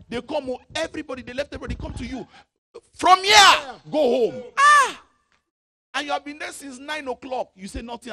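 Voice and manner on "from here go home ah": high, loud mock order; mock dismissal. Preacher acting ushers sending a person home, shouting. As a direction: shoo them out loudly. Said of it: "ushers dismissing you, mock shout".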